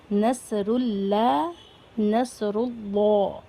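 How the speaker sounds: نصر اللہ with a thick, heavy ل in اللہ, drawn out slowly; teacher demonstrates the heavy lam in نصر اللہ, slowly; heavy Allah. Shown as a demonstration. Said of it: "لام کو موٹا پڑھیں گے".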